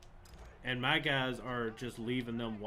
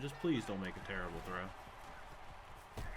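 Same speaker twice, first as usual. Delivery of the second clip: quiet plea; 4 semitones lower, 7 dB quieter, slower than usual. Real, not acted. Repeats the plea under breath.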